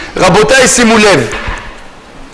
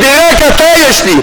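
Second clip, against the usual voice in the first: devoted plea; 4 semitones higher than usual. Retold or imitated. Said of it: "אם האדם יודע להגיד".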